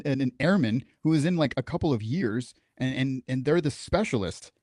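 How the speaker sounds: ordinary talk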